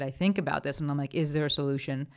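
whistling sibilants on the s sounds. Real, not acted. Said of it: "Sorry about the whistle there".

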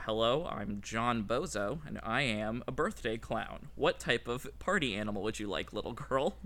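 a hint of a gentle party clown; birthday clown voice. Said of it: "the actual funny clown voice to do is that".

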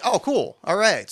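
hammed-up happy reaction; acted relief. Acts out own relieved reaction.

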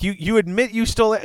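fast, high, indignant question; shocked accusation. Retold or imitated. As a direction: fire it off in disbelief. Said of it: "he's like".

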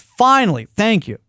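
exasperated relief. Retold or imitated. Man to Alexa finally obeying, exasperated relief. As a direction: let out a pointed, long-awaited thanks. Retold relief after long struggle.

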